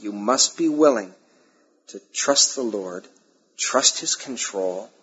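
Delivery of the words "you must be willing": "must" stressed as non-negotiable; emphatic weight on "must". Real, not acted. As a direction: press hard on the word "must". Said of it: "I emphasize the word must".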